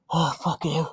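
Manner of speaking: words through a yawn. Real, not acted. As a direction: talk mid-yawn. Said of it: "I can't stop yawning".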